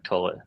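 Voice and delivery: toilet said like "TOE-lit"; regional "toilet". Real, not acted. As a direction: say "toilet" with an oh in place of oy. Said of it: "they always give me a hard time".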